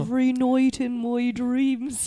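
slow Irish lilt on a song line; sing-speak it like a lightly Irish crooner; gentle Irish accent. Acted. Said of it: "That's a really good Irish accent".

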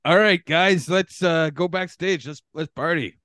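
high, loud party call; rally the team to celebrate; excited rallying. Pretend. Winner rallies cast backstage.

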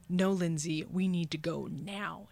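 mock-stern order from the gut; insistent talking body. Her body insists she leave the flirting, firm inner voice. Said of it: "my body goes".

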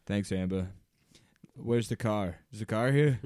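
lightly voiced Boston accent; a hint of Boston Rob. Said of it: "Boston accent continued".

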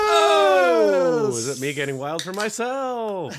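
high, loud, stretched-out whoop; playful hollering. Pretend. Guest cheering his own entrance, playfully hollering. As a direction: holler it like a crowd going wild.

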